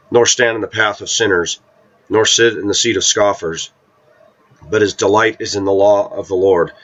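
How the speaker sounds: measured, solemn Bible reading; scripture reading. Acted. Preacher reading Psalm one to listeners, solemn reading. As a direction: read the psalm like a preacher at the pulpit.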